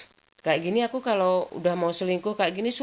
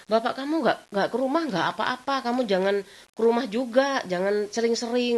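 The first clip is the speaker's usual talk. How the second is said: telling him off, higher; 6 semitones higher than usual. Retold or imitated. Telling boyfriend not to visit.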